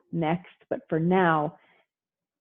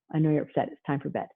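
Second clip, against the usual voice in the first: calm and firm; 3 semitones lower, 4 dB quieter, faster than usual. Shown as a demonstration. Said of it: "by saying".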